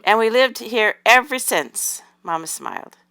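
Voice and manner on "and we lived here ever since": higher-pitched, drawn-out eager interjection; chiming in. A narrator's reading. Doll girl joining her mother's story, chiming in. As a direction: chime in, stretching the words out. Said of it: "Annabelle chimed in".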